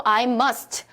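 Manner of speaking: "I must" with a released final T; T sounded. Shown as a demonstration. Teacher says the word alone, T sounded. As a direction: finish "must" on an audible "t". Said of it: "트자가 소리가".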